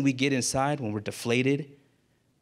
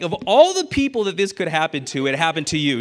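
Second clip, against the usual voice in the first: amused friend; 3 semitones higher, 5 dB louder than usual. Retold or imitated. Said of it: "and he laughs".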